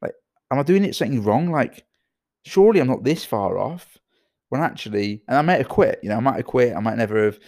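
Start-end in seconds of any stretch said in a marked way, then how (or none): 0.0-4.0 imitating his younger self, anxious and higher; anxious self-doubt. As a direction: voice the worried teen founder, pleading. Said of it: "I'd be like".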